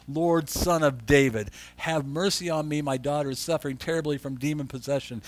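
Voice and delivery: slow, earnest plea to the Lord; slow pleading. Shown as a demonstration. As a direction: draw out each word like a begging mother. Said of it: "Listen to what she says".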